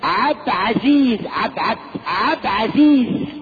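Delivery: slow "عبد عزيز" with "عبد" run into the name and no article; stretched colloquial "عبد عزيز"; mocked mispronunciation. Shown as a demonstration. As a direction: mimic "عبد عزيز" drawn out, harping on "عبد". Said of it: "ايه عبد ده؟".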